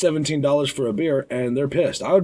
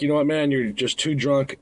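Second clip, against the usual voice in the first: calm and friendly. Shown as a demonstration. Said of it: "I always talk like this".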